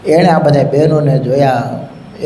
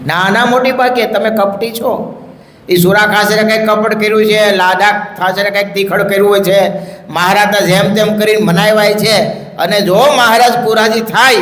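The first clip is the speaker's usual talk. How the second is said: higher, pleading-accusing voice; refuse, suspecting a trick; elder sister doubting Naja, higher and anxious; suspicious sister; 6 semitones higher than usual. Acted.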